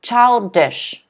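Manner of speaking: put-on "Childish" with ch at the start and sh at the end; teacher's model childish; model word. Shown as a demonstration. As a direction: blend ch and sh carefully. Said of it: "the ch and the sh sound".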